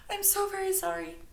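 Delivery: high, teary apology; a hint of held tears; trying not to cry. A narrator's reading. Stella apologizing to Miss Graham, teary. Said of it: "trying not to cry".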